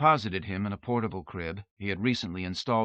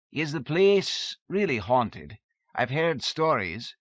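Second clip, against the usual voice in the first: uneasy question; 6 semitones higher than usual. A narrator's reading. Servant asks about haunting.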